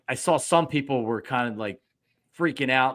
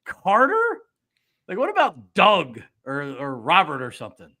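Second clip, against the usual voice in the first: mock disbelief; 4 dB louder than usual. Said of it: "but I'm like".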